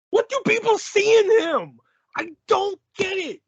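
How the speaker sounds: high-pitched, incredulous outburst; exasperated rant. Real, not acted. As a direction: plead in disbelief at the fans. Ranting about an overrated wrestler.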